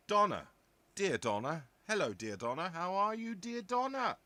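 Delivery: loud greeting climbing high; grand, playful hail to a friend; effusive greeting. Acted. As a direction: call out to Donna, building to a high, playful finish. Calls out greeting to viewer Donna.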